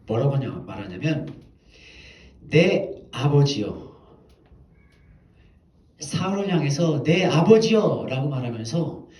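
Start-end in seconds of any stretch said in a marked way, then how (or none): 2.5-3.9 slow calling out to Saul. Retold or imitated. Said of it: "사울을 불러서 외칩니다". 7.0-8.3 slow louder call. Retold or imitated. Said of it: "사울을 불러서 외칩니다".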